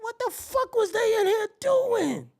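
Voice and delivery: high, slow, appalled; shocked disgust. Acted. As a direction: drag it out high in disbelief. Shocked entering room.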